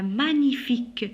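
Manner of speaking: "magnifique" with gn as ny; "magnifique" as ma-nyi-fique; correct gn sound. Shown as a demonstration. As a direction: say "magnifique" with no hard g. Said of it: "on dit magnifique".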